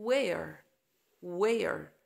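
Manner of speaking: where said wer; silent H. Shown as a demonstration. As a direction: drop the H in Where. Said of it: "ال H silent".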